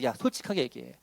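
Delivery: lightly voiced inner prompting, low and soft; Holy Spirit speaking. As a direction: drop low and quiet for a gentle nudge. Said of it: "성령님이 계속 우리에게 말씀해요". (낮고 조용히 타이르는 성령의 음성 흉내)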